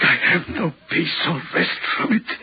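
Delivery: a man worn down to tears; tearful. Acted. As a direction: voice catching with a sob. Haunted signalman confessing his torment.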